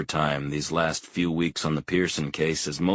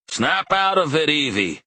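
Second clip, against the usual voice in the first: put-on loud booming old man's bark; barking father; 11 semitones higher, 6 dB louder than usual. A narrator's reading. Old father to his confused wife, booming bark. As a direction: bark it at her to snap her out. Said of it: "he barks".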